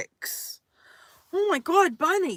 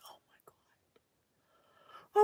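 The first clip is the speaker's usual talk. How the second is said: slow whisper; 18 dB quieter, much slower than usual. Real, not acted. Overwhelmed by the love message.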